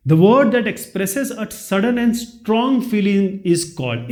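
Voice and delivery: slow, careful reading of the quiz sentence; slow question reading. Shown as a demonstration. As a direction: read each word out slowly for the class. Reads question slowly. (धीरे-धीरे प्रश्न पढ़ना)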